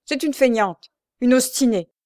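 high, loud accusation; scolding outcry; crying out. A narrator's reading. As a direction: shout the insults in irritation. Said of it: "cria-t-elle en désignant l'aveugle".

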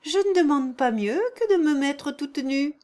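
eager shout of agreement; cried out gladly; eager cry. A narrator's reading. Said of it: "s'écria Avdotia Ignatievna".

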